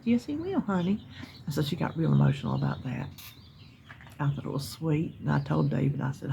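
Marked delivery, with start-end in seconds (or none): 0.0-1.0 reassuring. Retold or imitated.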